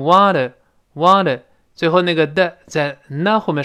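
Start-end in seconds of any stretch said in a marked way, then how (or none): 0.0-1.4 "wanna" with the t softened into a d-like tap; slow "wanna", t voiced as a quick d. Shown as a demonstration. Teacher shows learners voicing, "wanna" with a tapped d. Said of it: "又浊化成wanna".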